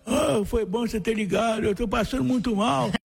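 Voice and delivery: put-on high frail little old man voice. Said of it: "uma voz de velhinho".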